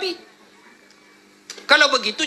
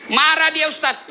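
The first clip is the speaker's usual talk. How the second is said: raised, whiny protest; timid husband; 6 semitones higher than usual. Retold or imitated. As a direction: act the scared husband pleading. (suami penakut yang merengek)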